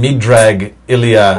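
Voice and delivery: light Russian accent, drawn out slowly. Shown as a demonstration. Host reading out a suspect's aliases, in a Russian accent. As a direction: give the foreign names a slow Russian flavour. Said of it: "Not a bad Russian accent you're using there".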